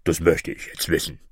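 slightly deepened monster bird voice; a hint of low creature demand; insistent griffin. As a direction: insist as a lightly voiced beast. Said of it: "rief der Vogel Greif".

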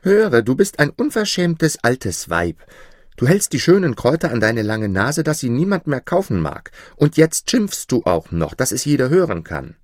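put-on loud, high, brave boy; bold shout. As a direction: call it out boldly and loud. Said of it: "Mutig rief er".

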